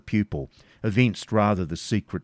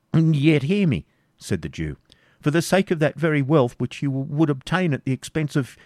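higher, urgent, halting; pleading Isaac; 7 semitones higher, 3 dB louder than usual. Acted. Isaac pleading then stopping short before the Baron. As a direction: begin boldly then falter.

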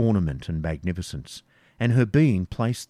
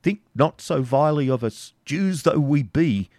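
put-on old man pressing his case, slightly higher; eager pleading; 7 semitones higher, 4 dB louder than usual. Isaac pressing the softened baron, eager and pleading. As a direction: seize the moment of sympathy. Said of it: "eager to improve the moment".

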